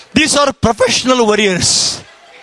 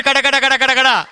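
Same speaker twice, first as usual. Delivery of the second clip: rapid twitching noise; much faster than usual. Retold or imitated. Imitates his twitching eye.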